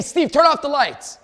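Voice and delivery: loud, slow order to turn the lights off; loud boss command; commanding call. Retold or imitated. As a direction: bark it across the room. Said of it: "I say".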